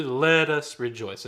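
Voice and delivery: measured choral speech; spoken in tempo. Shown as a demonstration. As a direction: speak it on the beat with long vowels. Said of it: "let's speak this real fast in tempo".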